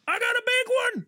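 put-on rural North Carolina accent. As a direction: yell it like a proud rural North Carolina fisherman landing a catch. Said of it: "that accent?".

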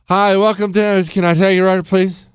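loud mumbled drive-through greeting; rushed order-taker. Retold or imitated. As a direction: rattle off the order greeting, words run together. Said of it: "They speak like this".

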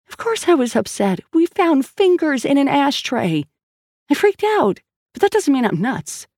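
climbing in pitch as she gets worked up; Sal's voice. A narrator's reading. Sal defends her sanity.

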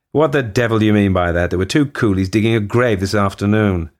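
loud, angry demand. Acted. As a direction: snap at him, losing patience. Taipan confronts overseer.

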